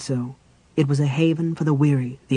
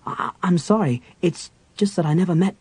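embarrassed apology; 4 semitones higher than usual. Acted. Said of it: "He flushed".

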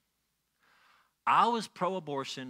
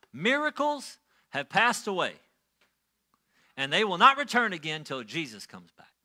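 louder, emphatic preacher's pronouncement; pulpit proclamation; 4 dB louder than usual. Retold or imitated. Elder preaching to the church that Sunday, pulpit proclamation. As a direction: imitate an elder declaring doctrine from the pulpit. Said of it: "He got up in the pulpit and he said this".

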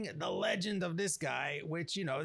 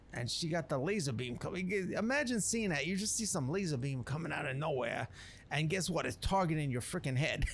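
lightly put-on swaggering streetwise narrator; a hint of a cocky wasteland chef telling a legend; Ghost Chef voice. Explaining the legend of this guy, a lightly voiced cocky chef. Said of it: "I'm just basically doing it as his voice".

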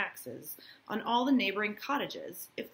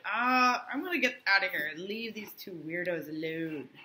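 mock awkward exit. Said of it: "He's like".

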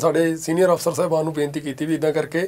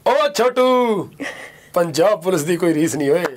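a hint of a swaggering cop; Punjab Police film dialogue; slower than usual. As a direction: deliver the film line with mild bravado. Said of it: "ਉਹ ਪੂਰਾ ਜਿਹੜਾ dialogue ਆ". (Punjab police ਵਾਲਾ dialogue)

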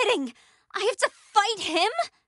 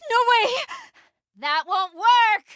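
shouting; 4 semitones higher, 4 dB louder than usual. Acted. Fighting a boss.

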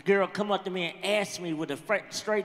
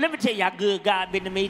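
quick shouted testimony; 2 semitones lower, faster than usual. Retold or imitated. Comic shouting his testimony fast before the song.

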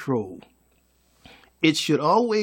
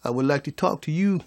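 calm request; 4 semitones lower, 3 dB quieter than usual. Shown as a demonstration. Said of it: "They don't know how to come and say".

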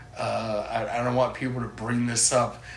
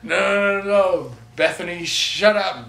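mildly raised, mock-panicked cult leader; flustered silencing; 3 semitones higher, 5 dB louder, slower than usual. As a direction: cut off the heckler a bit louder.

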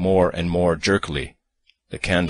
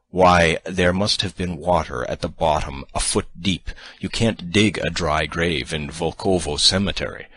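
provoked. Acted. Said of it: "I suddenly began to feel provoked".

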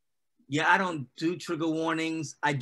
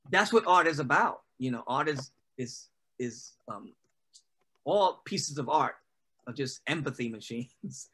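usual speaking voice

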